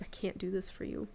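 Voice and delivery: softly whispered quote of husband; retold whisper. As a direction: whisper it gently, as he did. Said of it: "And he's like".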